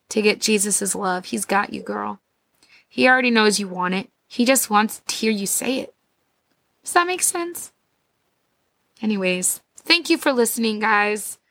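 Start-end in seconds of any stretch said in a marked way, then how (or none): 2.9-11.4 muffled voice from a swollen throat. Real, not acted. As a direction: talk through a sore, swollen throat. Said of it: "my voice sounds like I have a pillow in it".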